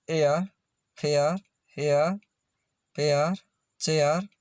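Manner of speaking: "फेयर, हेयर, पेयर, चेयर" spaced out, each ending in an "ea-r" glide; AIR sound demo. Shown as a demonstration. Teacher showing how AIR sounds, carefully spacing "फेयर, हेयर, पेयर, चेयर". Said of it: "एआईआर का उच्चारण ए होता है".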